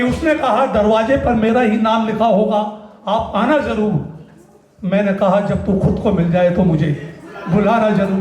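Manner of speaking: stage poet's cadence; poetry recitation. Acted. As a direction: recite with lingering line ends. Recites his poem Makaan.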